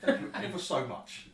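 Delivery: high, loud gush of gratitude; effusive thanks. Acted. Wolf-man thanking visitors for the case, effusive high voice. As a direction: thank them grandly, pitch jumping up.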